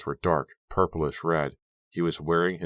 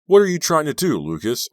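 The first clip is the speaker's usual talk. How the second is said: high, loud outraged scream; 12 semitones higher, 9 dB louder than usual. A narrator's reading. Driver to Lucas after the near crash, screaming. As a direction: scream the question at him. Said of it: "I screamed".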